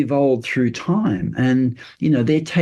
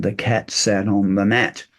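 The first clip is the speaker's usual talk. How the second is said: lower, level reading with no inflection; flat monotone; 5 semitones lower than usual. Shown as a demonstration. Demonstrating how poor readers read aloud, flat monotone. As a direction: read it like a struggling reader, each word dead even. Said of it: "it's very flat monotone".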